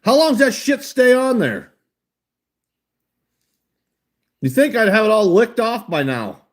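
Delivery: talking through numb lips. Real, not acted. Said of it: "my fucking lips are numb again".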